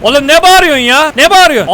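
high, loud exasperated question; loud indignant protest. Real, not acted. Gamer scolding a screaming game character, loud indignation. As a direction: snap back loudly at the screamer.

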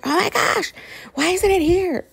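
worked up. Retold or imitated. Impatient squeal at a late planner order. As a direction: fret out loud like a kid waiting for a parcel. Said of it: "I get, like, all worked up".

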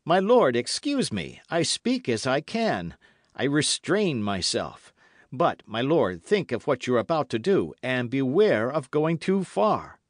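high, loud, restrained warning; fervent young officer. A narrator's reading. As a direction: warn your lord with pressing urgency.

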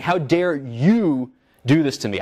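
slow, understated mock outrage; restating the angry words calmly, slowed down; indignant quote. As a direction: say it as if addressing the attacker, lightly. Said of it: "I'm saying".

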